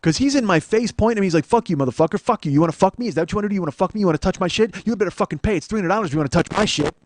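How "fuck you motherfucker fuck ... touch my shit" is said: louder, high-pitched mock tirade; retold aggressive rant. Stranger pointing in his face, retold furious rant. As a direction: fire off the taunts like a ranting aggressor.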